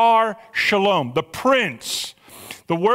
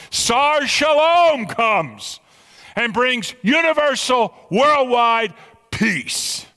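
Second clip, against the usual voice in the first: rising preaching climax; 3 semitones higher, much slower than usual. Real, not acted. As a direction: proclaim it slowly, swelling with awe.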